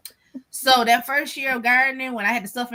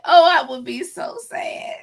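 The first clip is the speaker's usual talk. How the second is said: whispered, crying in laughter; real tearful whisper; near tears; 2 semitones higher than usual. Real, not acted. Confessing her snake fear to the hosts, tearful whisper. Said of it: "I'm almost in tears now".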